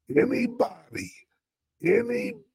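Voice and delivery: very high, squealed anybody; sky-high mock-preacher squeal. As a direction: shriek it way up in pitch. Mock sermon, squealed repetition.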